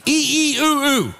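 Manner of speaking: high-pitched monkey hoots; monkey impression. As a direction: hoot like a monkey in short squeals. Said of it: "It's the best monkey I got".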